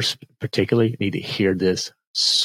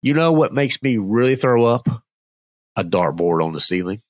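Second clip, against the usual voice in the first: telling a dad joke. Acted. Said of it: "Number two".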